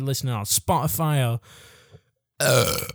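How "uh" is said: burping mid-sentence after a sip of Coke; burping after fizzy drink. Real, not acted. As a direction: let a burp slip into the words. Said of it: "I apologise for just burping down your ear holes".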